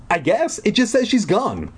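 airy, offhand counselor; camp counselor voice. A narrator's reading. Buddy voiced again.

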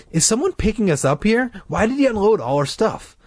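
high, alarmed and pleading; frightened. A narrator's reading. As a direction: panicky questioning. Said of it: "Mike cried".

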